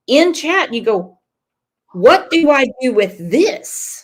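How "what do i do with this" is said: imitating a baffled friend, louder; mock bewilderment. Host quoting the new moderator's question, mock bewilderment. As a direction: play up the bafflement.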